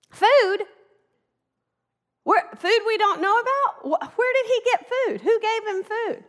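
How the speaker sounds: high, half-laughing confused voices; mock the disciples' bewilderment over food; baffled disciples.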